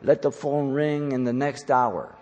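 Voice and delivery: lightly imitated naive believer praying; a hint of put-on pleading, held on a level tune; mock prayer. Preacher imitating people who shoot up prayers, lightly mocking. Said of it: "they shoot up prayers like".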